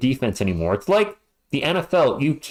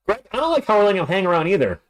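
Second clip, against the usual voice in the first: New Yorker; 6 semitones higher, faster than usual. Real, not acted. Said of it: "I sound like a New Yorker".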